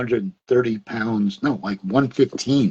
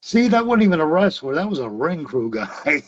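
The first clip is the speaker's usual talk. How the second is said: mocking heckler; 5 semitones higher than usual. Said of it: "one guy going to leave going".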